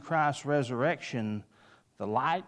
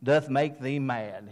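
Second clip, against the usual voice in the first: quoting Festus with a raised, louder voice; 5 dB louder than usual. Retold or imitated. Preacher quoting Festus accusing Paul, loud. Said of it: "Festus said in a loud voice".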